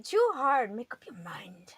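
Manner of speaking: whispered mock complaint; teasing whisper. Real, not acted. Host teasing co-host who can't decide, whispered. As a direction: needle him under your breath.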